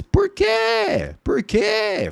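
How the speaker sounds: high squeaky puzzled "por quê"; mock student question. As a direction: play a confused student. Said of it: "teacher mimics a student's question". (aluno confuso, voz aguda)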